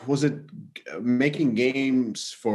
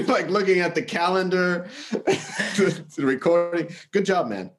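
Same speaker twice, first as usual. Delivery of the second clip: roomy gym echo; talking in an echoey gym. Real, not acted. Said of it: "who's fucking recording from the gym".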